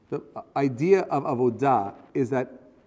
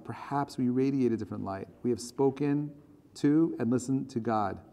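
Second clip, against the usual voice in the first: measured, solemn reading of a text; reading aloud. Acted. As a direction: read it out phrase by phrase, earnestly.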